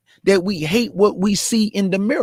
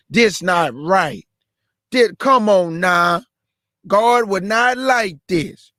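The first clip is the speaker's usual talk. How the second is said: mocking quote; slower than usual. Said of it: "somebody that's a coon gonna say".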